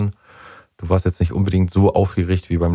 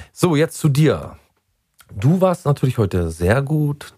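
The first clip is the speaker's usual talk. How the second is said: warm praise; 3 semitones higher, slower than usual. Acted. Coach turns to the favourite.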